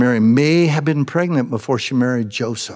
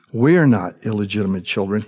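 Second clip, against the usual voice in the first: sly insinuation; 7 semitones lower than usual. Retold or imitated. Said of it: "Hint, hint, wink, wink".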